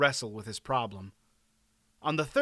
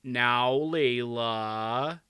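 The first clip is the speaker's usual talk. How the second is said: slow, drawn-out embarrassed king; sheepish, stretched-out protest; much slower than usual. A narrator's reading. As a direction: draw it out awkwardly to hush a wife. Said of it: "said in an embarrassed voice".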